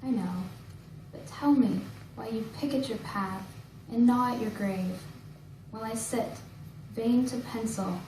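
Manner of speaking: measured poem recital with pauses between lines; poetry reading. Acted. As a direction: recite each line deliberately, letting it settle. Reads own poem aloud.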